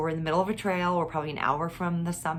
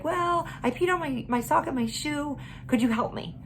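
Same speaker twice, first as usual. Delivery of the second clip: put-on little girl voice; 7 semitones higher than usual. Mother voices daughter asking help.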